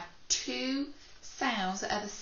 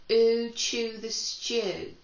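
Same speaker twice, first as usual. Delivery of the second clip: excited rhyme; 3 semitones higher, 5 dB louder, slower than usual. Shown as a demonstration. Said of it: "phonics rhyme demo".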